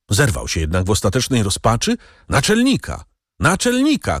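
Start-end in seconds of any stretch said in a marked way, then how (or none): 2.3-3.0 high, desperate cry for the chief; desperate shout. A narrator's reading. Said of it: "krzyknął". 3.4-4.2 high, desperate cry for the chief; desperate shout. A narrator's reading. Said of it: "krzyknął".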